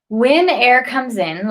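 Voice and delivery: slow words stretched by a yawn. Real, not acted. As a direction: talk through a yawn. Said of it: "oh, I'm so sorry".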